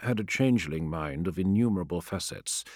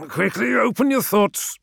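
higher, smooth and flowing; 14 semitones higher, 6 dB louder than usual. A narrator's reading. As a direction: let the words flow like water. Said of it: "his voice like clear water".

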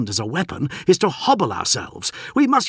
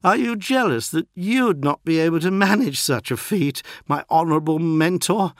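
higher, louder goading voice; slurred taunt; 9 semitones higher, 6 dB louder than usual. A narrator's reading. Beaten postulant taunts his mentor, slurred and defiant. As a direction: taunt the mentor through an injured mouth. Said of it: "Marduk slurred".

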